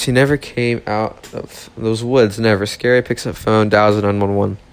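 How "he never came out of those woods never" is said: spooky. Acted. Spooky line about the lost boy.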